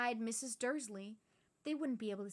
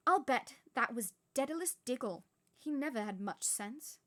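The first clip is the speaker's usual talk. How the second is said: louder scornful retake; scornful witch; 2 semitones higher, 7 dB louder than usual. Acted. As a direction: sneer at Daedalus, loud. Retake after laughing.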